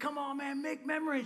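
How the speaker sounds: high, eager, encouraging delivery.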